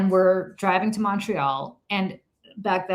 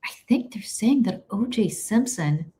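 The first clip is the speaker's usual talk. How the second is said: unvoiced hush, slower; whispered news; 3 semitones higher, slower than usual. Telling friend John the radio news in a hushed whisper. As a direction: breathe it out like breaking news. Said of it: "I turned to my friend John and I said".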